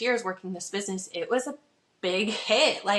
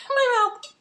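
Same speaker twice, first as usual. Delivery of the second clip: laughing; 6 dB louder than usual. Real, not acted. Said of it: "oatmeal still in my".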